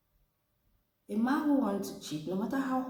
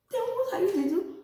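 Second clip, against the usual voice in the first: laughing question; 12 semitones higher, 3 dB louder than usual. Retold or imitated.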